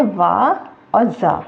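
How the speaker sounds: वा and जा drawn out very slowly; spelled-out sounds. Shown as a demonstration. Teacher spells out वा and जा very slowly for learners. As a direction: stretch वा and जा, sound by sound. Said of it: "मद भी आया है".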